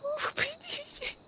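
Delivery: confused voice. Acted. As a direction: ask it as someone lost and dazed. Wakes up naked, confused. (verwirrt, höher und langsam)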